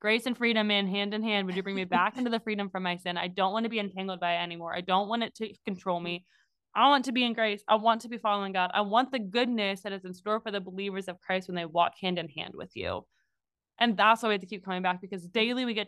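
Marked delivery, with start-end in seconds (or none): 1.5-13.1 sincere prayer. Retold or imitated. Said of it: "what God wants us to say is".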